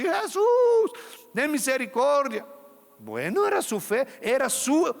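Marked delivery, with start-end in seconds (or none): 0.0-2.4 mock loud, high cry of the name; imitated shout. The crowd mocking the blind man's cry, loud imitated shout. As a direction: ham up the embarrassing yell. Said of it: "gritando así".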